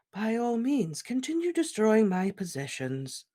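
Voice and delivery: light, serene, unbothered. Acted. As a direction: invite it serenely. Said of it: "said Dumbledore serenely".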